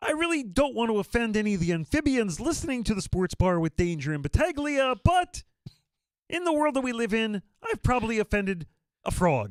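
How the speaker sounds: very high cartoon frog character voice. Answering a co-host's question on the show, speaker talks in a Kermit the Frog voice. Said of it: "by you using this voice".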